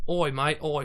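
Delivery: a quick, punchy Australian "Oi, mate"; short Australian greeting, lightly put on; Australian accent. Shown as a demonstration. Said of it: "like my Australian".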